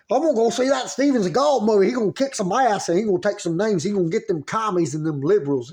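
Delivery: hammed-up, eager Southern redneck dad; redneck Southern accent. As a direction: put on a broad Southern accent, starting fast and high. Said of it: "say that in a Southern accent".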